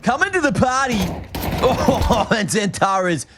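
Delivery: put-on Western Sydney brother-speak; put-on Western Sydney accent. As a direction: cast the match as a hectic Western Sydney lad. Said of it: "It might actually be your real accent".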